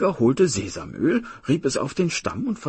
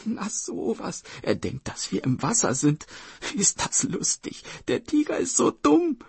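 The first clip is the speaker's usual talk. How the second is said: put-on high-pitched little girl, lightly tittering; high, amused child's voice; giggling sister; 11 semitones higher than usual. A narrator's reading. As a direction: giggle at the silly tiger. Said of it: "kicherte die Schwester".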